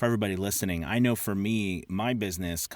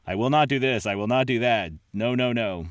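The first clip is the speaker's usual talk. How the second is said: louder, firm mock refusal; mock uncooperative refusal; 4 semitones higher, 5 dB louder than usual. Freelancer refusing a client's revisions, mock uncooperative. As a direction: act out a stubborn, unkind no. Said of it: "not in a manner in where it looks like you don't wanna work".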